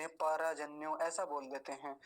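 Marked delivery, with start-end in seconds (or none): 0.1-1.0 परजन्यो with र as a whole syllable; full र mistake. Shown as a demonstration. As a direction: mispronounce परजन्यो as pa-ra-janyo. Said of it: "आधे रेफ को पूरा बोल जाते".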